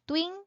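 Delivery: "twing" set apart as the strong beat; isolated, stressed "twing"; stressed syllable. Shown as a demonstration. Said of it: "for the stressed syllables".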